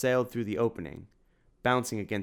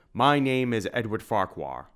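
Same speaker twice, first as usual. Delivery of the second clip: a hint of a big jovial man, louder; lightly voiced shopkeeper; 3 semitones higher, 5 dB louder than usual. Edward grins at Simon, a touch of hearty warmth. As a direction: beam at an old friend.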